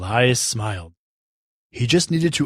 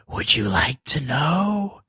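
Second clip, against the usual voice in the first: slow witch voice; slower than usual. Acted. Second witch voice.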